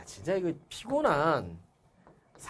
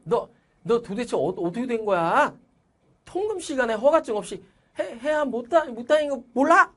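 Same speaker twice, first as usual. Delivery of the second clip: much higher, scolding outburst with stammers; angry father; 8 semitones higher than usual. Acted. Father scolding his son in front of officers, angry. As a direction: put on a stern scolding to get the son out. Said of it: "이렇게 화를 낸 거야".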